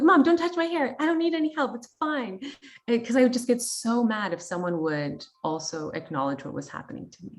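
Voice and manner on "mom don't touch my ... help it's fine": higher, louder mock-annoyed protest; retold snap at mom. Adult daughter telling her mom off about her hair, high and loud. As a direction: push mom away, irritated and raised. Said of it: "I'm like".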